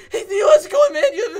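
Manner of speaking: very high, loud squeal, cracking with excitement; mock a starstruck fan losing all composure; voice-cracking fanboy. Brother meeting his comedy idol, imitated squealing with cracked voice. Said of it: "His voice cracking and everything".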